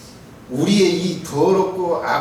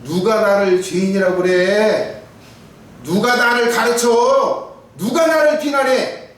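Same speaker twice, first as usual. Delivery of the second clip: defiant retort; 3 semitones higher, 4 dB louder, slower than usual. Retold or imitated. Mocking defiant sinner.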